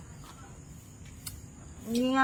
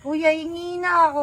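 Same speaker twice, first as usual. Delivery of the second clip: put-on slow drunk plea; drunkenly asking; 4 semitones higher, 4 dB louder than usual. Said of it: "Lasing ka na".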